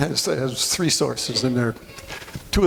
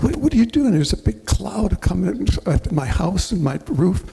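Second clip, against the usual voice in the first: exasperated shout; 7 semitones higher than usual. Retold or imitated. Homeowner confronting the roofer, high indignant shout that calms down. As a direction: shout over the noise, then settle. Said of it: "I said".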